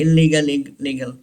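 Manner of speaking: ILLEGAL as il-LEE-gul, L held; wrong double L. Shown as a demonstration. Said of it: "wrong pronunciation है". (illegal को गलत "इल-लीगल" बोलें)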